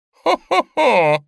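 high loud slow ho-ho-ho; burst of laughter. A narrator's reading. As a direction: soar into laughter. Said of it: "взвилась смехом мама".

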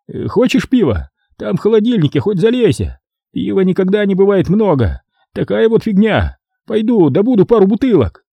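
high, chatty caretaker voice; caretaker babbling. A narrator's reading. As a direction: ramble on cheerfully about beer. Caretaker chattering over beer. (смотритель радостно тараторит)

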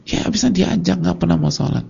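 a hint of an exasperated mother; complaining mother. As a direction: whine a little like a frustrated mum.

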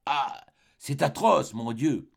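poisoned woman crying out in pain; anguished cry. Acted. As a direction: cry out in agony, dragging it. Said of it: "Elle s'écria".

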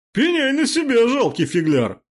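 lightly hammed pompous warning; pompous threat. A narrator's reading. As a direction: declaim it like a stage villain. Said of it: "пафосно заявил Гектор".

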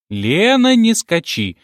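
a hint of a mumbling granny calling out; lightly voiced old woman scolding. A narrator's reading. Grandmother telling her granddaughter to stop skipping, lightly mumbling. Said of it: "шамкала бабка".

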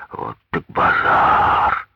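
low, slow unvoiced mutter; stunned driver under his breath. A narrator's reading. Driver muttering under his breath as he flees.

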